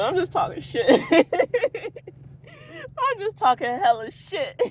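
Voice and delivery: amused, breaking into giggles; laughing. Real, not acted. Admitting to viewers it is just rambling, laughing. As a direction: crack up at your own nonsense.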